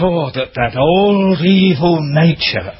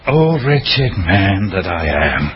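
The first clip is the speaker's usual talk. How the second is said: retold cry; 3 semitones lower, slower than usual. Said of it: "he's crying out".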